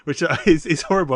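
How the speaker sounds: trying not to laugh while explaining; laughter breaking into the words; tickled despite finding it horrible; amused, stifled laughing. Real, not acted. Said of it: "I don't know why I'm laughing at it".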